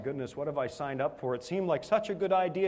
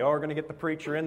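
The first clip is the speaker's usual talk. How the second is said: mocking; faster than usual. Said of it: "they were making fun of me".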